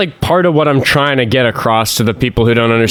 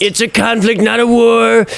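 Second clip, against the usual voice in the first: much higher mock politician voice; Trump; 10 semitones higher, slower than usual. Host mocking the president's wording, high-pitched impression. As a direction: insist on it in a high put-on voice. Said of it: "I need to update my Trump impression".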